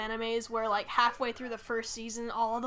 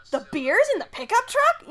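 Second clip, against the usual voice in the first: high and loud, truck rising; surprised question; 10 semitones higher, 9 dB louder than usual. Shown as a demonstration. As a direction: ask it in disbelief. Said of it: "different versions".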